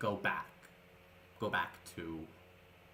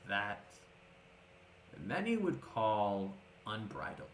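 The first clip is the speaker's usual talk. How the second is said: put-on wise old mentor; 2 semitones lower, 4 dB quieter than usual. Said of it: "and he goes".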